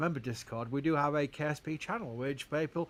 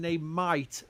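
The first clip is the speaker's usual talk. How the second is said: "might" drawn out and emphasized; stress on MIGHT. Real, not acted. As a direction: lean slowly on "might". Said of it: "I'm stressing the word might".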